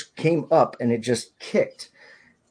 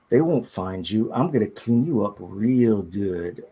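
a lightly voiced creepy captor, drawn out. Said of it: "this really creepy".

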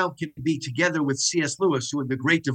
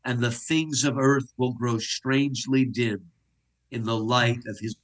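recited hymn; slower than usual. Shown as a demonstration. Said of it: "we would hear these words, which you'll recognize".

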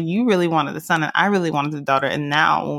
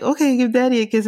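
coaxing dad; 6 semitones higher, faster than usual. Retold or imitated. Voicing husband coaxing the baby.

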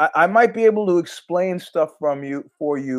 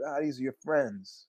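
mock guilt-trip; 3 semitones lower, 13 dB quieter than usual. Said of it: "the guy was like".

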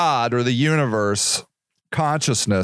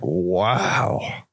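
slow, hushed wonder, lower; lightly voiced awestruck God; awed amazement; 3 semitones lower, slower than usual. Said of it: "God was like".

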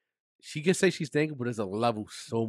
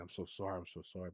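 soft apology; 4 semitones lower, 13 dB quieter, faster than usual. Retold or imitated. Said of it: "And I was like".

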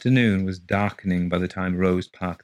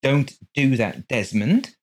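hasty; 6 semitones higher, 3 dB louder, slower than usual. A narrator's reading. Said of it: "said his wife hastily".

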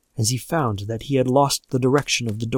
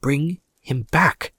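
slow, drawn-out demand; an old woman's slow, emphatic cry; 2 semitones higher, slower than usual. A narrator's reading. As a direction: plead slowly and insistently. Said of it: "cried the old woman".

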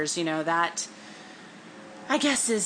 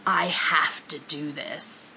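whispered; slower than usual. Retold or imitated. Quoting Zuko's reply.

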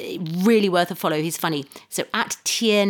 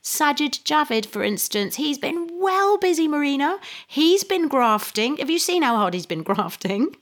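sarcastic praise; 2 semitones higher than usual. Acted. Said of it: "It was my horribly sarcastic introduction".

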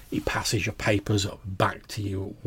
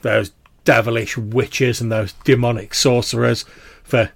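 animated veteran; 3 semitones higher, 10 dB louder than usual. Acted. Old soldier rants about witches to his comrade, animated. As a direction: get carried away, fist-waving at the old enemy. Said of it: "a little bit animated".

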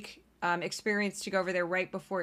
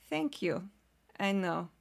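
understated, softer mock Russian accent; bad Russian accent; 4 dB quieter, slower than usual. Young Eastern European woman accepting compliment, bad Russian accent. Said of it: "Eastern European young woman".

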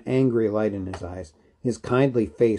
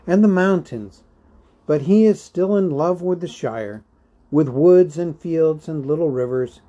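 lightly voiced hobbit, a bit higher and lively; wistful Bilbo; 3 semitones higher, 5 dB louder than usual. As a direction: speak longingly of a planned escape. Plays Bilbo discussing his heir.

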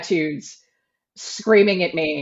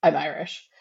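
flat correction; 6 semitones lower, 8 dB quieter than usual. Retold or imitated. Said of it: "he leans forward and he's like".

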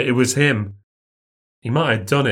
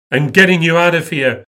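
whining; 5 semitones higher, 6 dB louder than usual. Acted. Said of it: "he whines".

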